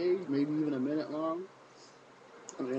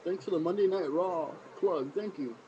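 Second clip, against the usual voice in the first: mock thank-you; 4 semitones higher than usual. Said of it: "TNA, Dixie Carter, them should be thanking".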